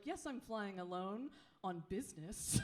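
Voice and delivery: a hint of a prim lady, slightly soft; feminized voice. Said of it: "I just kind of feminized my voice".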